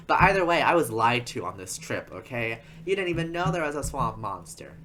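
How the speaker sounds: playful indignation, bursts of volume; hammed-up complaint of a cheated customer; mock outrage. Customer complains about being lied to on the trip, mock outrage.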